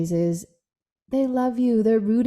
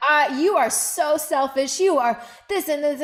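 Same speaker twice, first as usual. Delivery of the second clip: angry venting; 7 semitones higher than usual. Retold or imitated. Venting anger alone in practice.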